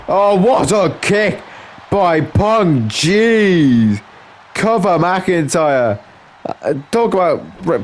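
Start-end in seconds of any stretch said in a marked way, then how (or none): 0.1-6.0 lively wrestling commentary, a little raised in pitch; live play-by-play. Acted. Commentator following Punk and McIntyre, lively play-by-play. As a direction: call the wrestling moves as they land.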